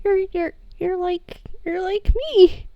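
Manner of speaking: halting, stuttered, rising happy tears; stuttering teary excitement; stammering joy. Acted. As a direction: trip over words with emotion. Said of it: "and he says".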